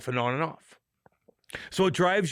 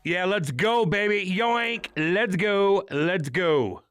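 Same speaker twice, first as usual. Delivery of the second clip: hyped cheer; 5 semitones higher, much slower than usual. Real, not acted. Hype cheer.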